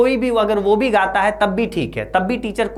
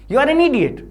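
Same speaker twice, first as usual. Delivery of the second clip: mock furious shout; 8 semitones higher, 4 dB louder, much slower than usual. Acted teacher shouting at pupil.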